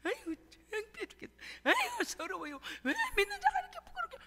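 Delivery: mock-tearful whimper rising high; high, teary lament of the old days; old weepy prayer. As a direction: imitate how you used to whine in shame. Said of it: "전에는 막".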